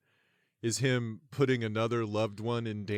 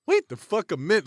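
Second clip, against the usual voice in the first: realization; 7 semitones higher, 6 dB louder than usual. Retold or imitated. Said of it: "you're like".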